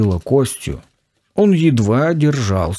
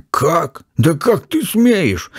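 higher, slow indignant outburst; mock outrage, pitched up and drawn out; angry outcry; 7 semitones higher, slower than usual. A narrator's reading. Professor bristling at Kostya, slow indignant higher cry. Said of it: "вскричал было в гневе профессор".

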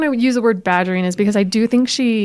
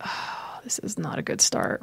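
much softer, breathy whisper to herself; whispered aside; 2 semitones lower, 12 dB quieter than usual. Retold or imitated. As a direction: whisper it like a worried secret to yourself. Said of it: "I'm like".

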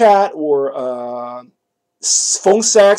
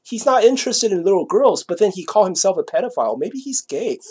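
imagined schemers; 3 semitones higher than usual. Retold or imitated. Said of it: "they started thinking".

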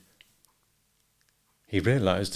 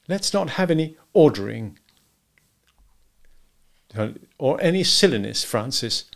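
higher, pleasant chiding; 5 semitones higher than usual. A narrator's reading. Wife to husband at breakfast, pleasantly. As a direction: chide him pleasantly, unhurried. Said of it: "said quite pleasantly".

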